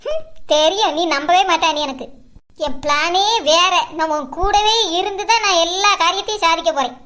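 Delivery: scheming aside. Acted.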